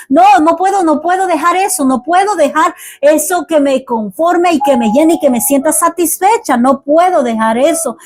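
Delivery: rapid, climbing pleas that build in force; fervent preaching. Acted. Preacher insisting to the church that prayer is not enough, rising preaching.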